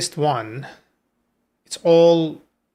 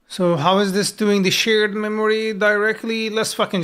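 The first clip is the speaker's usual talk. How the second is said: loud, raised question called out; yelling across the room; 6 semitones higher, 6 dB louder than usual. Real, not acted. Loud question while coding alone.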